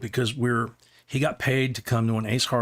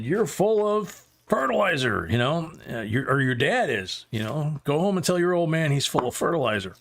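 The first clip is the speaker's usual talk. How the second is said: higher-pitched imitation of an angry growl at the kid; retold gruff put-down, pitched higher; mock growl; 3 semitones higher than usual. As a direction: bark it back at the kid, hammed up as you retell it. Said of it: "he just growled at this kid".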